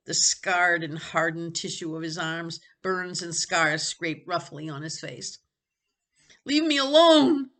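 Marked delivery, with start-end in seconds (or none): 6.4-7.5 higher, louder gasping plea; gasped. Acted. Jonathan gasping at Benny to leave him. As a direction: force it out breathless. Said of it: "he managed to gasp".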